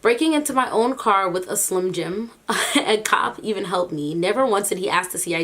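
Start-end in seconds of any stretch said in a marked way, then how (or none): 0.0-2.3 reads the line through real laughter; can't keep it together, laughing; giggling through the words; laughing while reading. Real, not acted. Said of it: "but here I am laughing".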